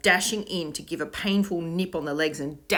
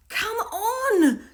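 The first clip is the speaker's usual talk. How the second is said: high, loud urgent call; rally your friends, loud and high; cried out; 8 dB louder than usual. A narrator's reading. Will calls his friends to follow, loud and urgent. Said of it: "cried Will".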